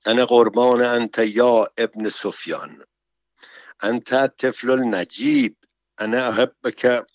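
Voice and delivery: lightly voiced doting mother; understated maternal affection; motherly tone.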